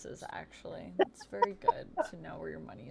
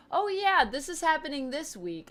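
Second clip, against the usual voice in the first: excited; 9 semitones higher, 6 dB louder than usual. Retold or imitated. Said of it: "both Anthony and I were like".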